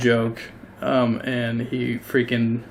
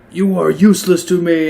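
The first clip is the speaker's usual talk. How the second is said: sneering gnome, a bit higher and louder; 5 semitones higher, 6 dB louder than usual. Acted. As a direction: spit it at the dog with contempt. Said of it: "which says".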